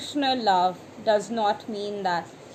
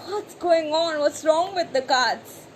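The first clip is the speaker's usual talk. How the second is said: imitating indignant confusion, pitched higher; mock exasperated surprise; 5 semitones higher, 4 dB louder than usual. Reader baffled by the Nine of Pentacles, mock surprise. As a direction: play it half-mocking, baffled at the cards. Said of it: "And you're like".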